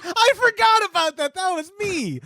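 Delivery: high-pitched, laughing admission; real amused outburst. Real, not acted. Realizing the injury story is about himself, high and laughing. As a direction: burst out laughing as the memory lands.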